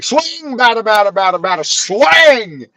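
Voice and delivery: high excited imitation of a kid cheering on a fight; egging them on. Son cheering on the fight, high chant. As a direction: bounce it up high like a kid ringside. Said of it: "He's like".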